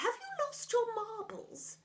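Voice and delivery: high, slow questioning voice; character voice. Acted. Voicing a figure in a story.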